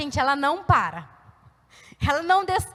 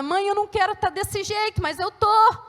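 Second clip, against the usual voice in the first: higher-pitched pleading daughter, imitated; retold anguished protest; 5 semitones higher than usual. Daughter telling her mother she can't help it, high plea. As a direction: plead it, rising to the last word.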